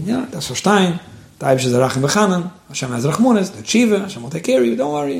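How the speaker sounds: lilting, rising comfort, as if retelling it; calming reassurance. Retold or imitated. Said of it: "the Rebbe calmed him down".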